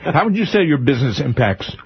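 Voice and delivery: talking through a bite of bacon; words round a mouthful; mouth full. Real, not acted. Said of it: "I can't s-, speak with bacon in my mouth".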